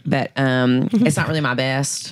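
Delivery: low Southern American voice; Southern US accent. Acted. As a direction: modest aside in a Southern accent. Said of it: "like, a Southern".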